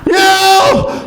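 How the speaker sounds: high, piercing meow; hammed-up human cat cry; woman turned cat. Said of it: "looking like she's turning into a cat".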